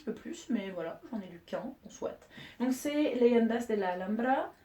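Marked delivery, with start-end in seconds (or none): 3.2-4.5 slow, drawn-out Spanish title; Spanish accent. Shown as a demonstration. Vlogger naming the month's book, hammed-up Spanish accent. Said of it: "avec un magnifique accent".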